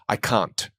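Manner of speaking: "I can't" with the T swallowed; dropped T. Shown as a demonstration. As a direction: let the T of "can't" vanish. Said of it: "I wouldn't pronounce".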